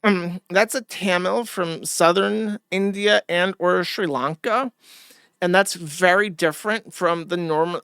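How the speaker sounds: a snob explaining castes, slow and mocking; mock Indian accent. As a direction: lecture slowly like a snob, mocking. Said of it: "an Indian would be like".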